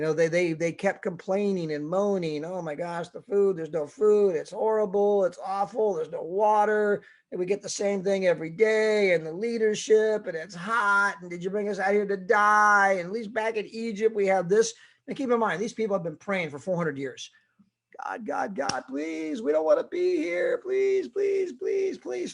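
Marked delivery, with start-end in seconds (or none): 2.4-14.7 higher, whining grumble; whiny complainer. Retold or imitated. 18.0-22.3 pleases squeaked very high; desperate begging. Retold or imitated. Israelites begging God.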